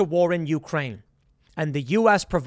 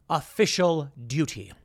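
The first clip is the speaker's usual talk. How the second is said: slow, lightly put-on official voice; drawn-out pronouncement of an officer; mock official; 3 semitones lower than usual. Privateer stopped by the crown, in a mock official voice.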